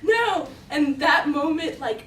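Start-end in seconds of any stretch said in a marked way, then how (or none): 0.0-0.5 high, loud tearful wail; mock crying. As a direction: act out a teen's weepy refusal. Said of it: "I just started crying".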